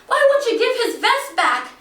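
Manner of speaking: high, loud wailing plea; mother crying out to the robbers. Retold or imitated. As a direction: beg through tears for the vest. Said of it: "My mother starts to cry".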